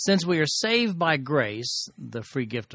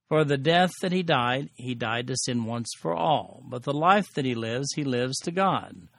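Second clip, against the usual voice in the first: measured, solemn Bible reading; scripture reading. Acted. Teacher reading scripture to the class, solemn. Reads the scripture passage aloud.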